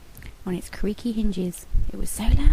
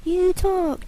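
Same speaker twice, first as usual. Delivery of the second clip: stuttering; 10 semitones higher, 4 dB louder than usual. A narrator's reading. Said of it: "James stuttered".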